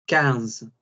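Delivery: quince said kanz, nasal IN vowel, QU as K; French quinze. Shown as a demonstration. Teacher models French fifteen: quince said nasally as kanz. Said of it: "I N suena como vocal nasal".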